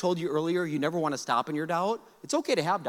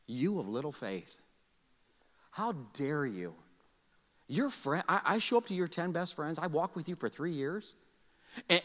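stern Jesus; 5 dB quieter than usual. Acted. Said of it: "what you'd think Jesus might say".

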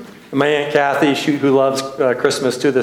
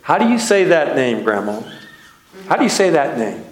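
retold childhood question, lifted slightly in pitch; puzzled child reader. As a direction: ask grandma like a stumped kid. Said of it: "And I said".

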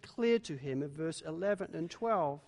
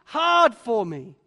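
overwhelmed; 7 semitones higher, 10 dB louder, slower than usual. Acted. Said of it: "Moses is overwhelmed".

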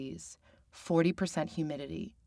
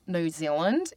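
New Zealand accent; slower than usual. Shown as a demonstration. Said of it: "is a little bit more nasal".

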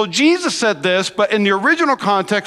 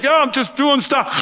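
put-on animated kid; 3 semitones higher than usual. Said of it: "super animated".

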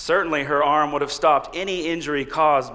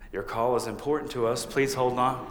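automated phone voice; 2 semitones lower, 5 dB quieter than usual. Retold or imitated. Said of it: "Then an automated voice says".

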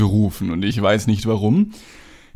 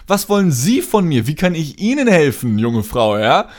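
indignant outburst; 3 semitones higher than usual. Retold or imitated. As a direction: throw the question back at her, fed up. Indignant reply to bank caller.

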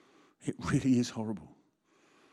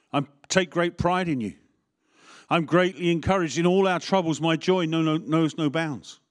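lightly voiced Paul, building higher and louder; Paul rejoicing; 5 semitones higher, 5 dB louder than usual. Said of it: "you can hear Paul's voice or you can hear mine".

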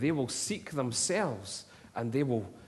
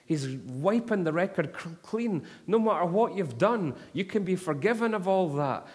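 imitated scream; 5 semitones higher than usual. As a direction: shout the gospel up to the open windows. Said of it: "he screamed it at the top of his voice".

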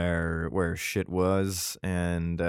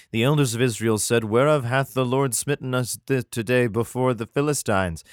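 scripture reading; 2 semitones higher than usual. Acted.

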